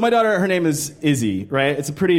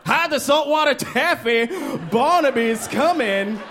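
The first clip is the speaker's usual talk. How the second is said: mock scared warning; 7 semitones higher than usual. Tough guy warning his friend, higher mock fear. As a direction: warn the crew Barnaby is near.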